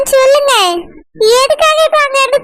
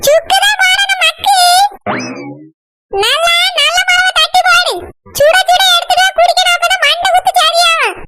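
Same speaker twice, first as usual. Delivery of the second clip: higher-pitched nagging wife voice; lightly voiced scolding woman; bossy wife; 5 semitones higher than usual. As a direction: order her about like a cranky mistress of the house. Bossy woman ordering coffee.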